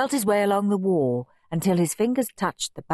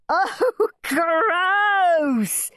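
high, gleeful chortle; chortling; 12 semitones higher, 3 dB louder than usual. A narrator's reading. Henry chortles at the gross TV show, chortling. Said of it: "he chortled".

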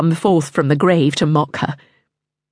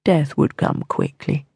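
low, gentle reassurance; calm her fears softly; soothing; 3 semitones lower, 4 dB quieter than usual. A narrator's reading. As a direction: Mortimer soothing the queen. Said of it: "soothed Mortimer".

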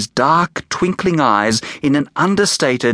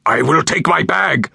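hushed threat; 4 semitones higher than usual. A narrator's reading. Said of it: "whispered Hermione Dinkus in such a burst of hushed threateningness".

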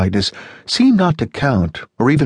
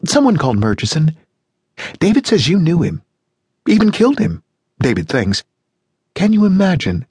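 gushing neighbour on the phone, much higher; Janice, cheerful American; 8 semitones higher than usual. A narrator's reading. Janice voiced in read story.

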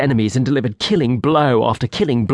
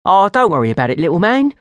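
reassuring; 7 semitones higher, 4 dB louder, faster than usual. Acted. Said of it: "Cindy said".

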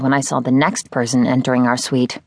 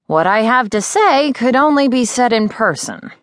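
higher, lightly voiced older teacher, serious; a hint of an eccentric mentor bringing grave news; Miz Terwilliger; 9 semitones higher than usual. Older witch teacher telling her student, lightly voiced and serious.

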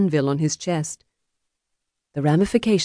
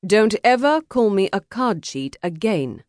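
raised, higher-pitched warning; stern warning; 6 semitones higher than usual. Acted. Duelist warning the man he shot, sternly. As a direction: warn him off firmly. Winner warns wounded opponent.

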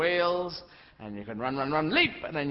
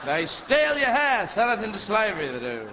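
put-on old lady; 4 dB louder than usual. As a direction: tell a spooky tale as a batty old woman. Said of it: "Why, old lady?".

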